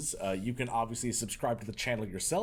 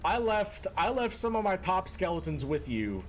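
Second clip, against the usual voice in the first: mock scolding; 4 semitones higher than usual. Scolding viewer Walner as boss.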